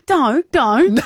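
lightly acted motherly scolding; imitated flustered mum. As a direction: mimic a mum reining in her child. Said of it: "the mum's trying to control him".

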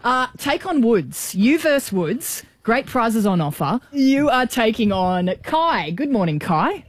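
a light put-on Canadian accent, slowed. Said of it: "Excuse my Canadian accent".

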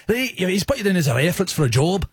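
lightly put-on Scottish accent. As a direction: have a go at a Scot on the phone. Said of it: "Maybe I could be a Scottish".

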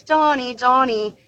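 high, sing-out name call; mum calling out. Retold or imitated. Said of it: "heard her mum calling her".

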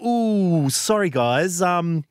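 casually sorry corporate voice; a hint of careless company spokesperson; mock breezy apology. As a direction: shrug off the data breach lightly. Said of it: "they said to go".

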